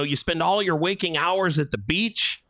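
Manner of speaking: a hint of naive wonder; lightly voiced awed relative. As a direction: imitate a gullible Midwesterner asking. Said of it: "some people that I would meet".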